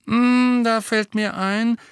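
thoughtful Lupin. A narrator's reading. Lupin thinking aloud.

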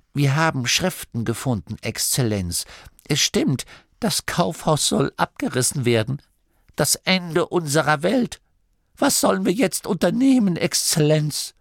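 worried acolyte. A narrator's reading. Gurda telling the abbot the store will be torn down, alarmed. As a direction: blurt out growing panic about the world ending.

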